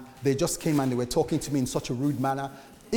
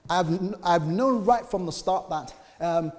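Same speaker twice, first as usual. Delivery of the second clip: louder, higher hurt accusation; a wife hurling her grievance, raised voice; upset wife; 6 semitones higher, 5 dB louder than usual. Retold or imitated. Wife accusing the husband of not loving her, raised and high. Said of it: "This is the wife telling the husband".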